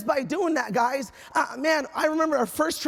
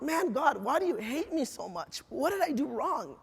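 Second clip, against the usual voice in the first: softer, subdued lament; retold tearful plea; 6 dB quieter than usual. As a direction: quietly imitate a hurt child pleading with God. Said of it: "I remember crying, like".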